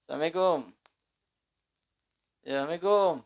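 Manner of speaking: Assalamualaikum swallowed into sameku; lazy shortened greeting; clipped door call. Retold or imitated. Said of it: "Kadang nggak ngambil singkatnya".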